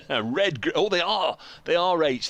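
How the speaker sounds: high, loud burst of sudden recognition; surprised realisation. Real, not acted. Commentator to Rach on finally seeing the red group, loud surprise. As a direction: exclaim as you suddenly spot it.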